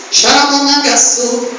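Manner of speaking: speaking in tongues. Real, not acted.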